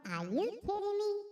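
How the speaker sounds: high-pitched incredulous cry; disbelief. Real, not acted. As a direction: squeak it out in utter disbelief. Disbelief at the field goal.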